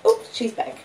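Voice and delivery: ordinary delivery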